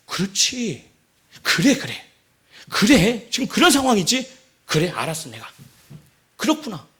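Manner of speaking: lightly acted king being won over; Absalom. Absalom nodding along to the adviser, gradually persuaded. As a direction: agree bit by bit, as if convinced. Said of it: "압살롬이 그 상황에서".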